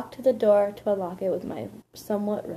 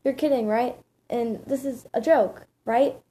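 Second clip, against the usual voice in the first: mildly alarmed, higher-pitched disbelief; understated freak-out, raised pitch; 3 semitones higher, 4 dB louder than usual. Acted. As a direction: question it with a touch of panic. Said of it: "My mother freaked".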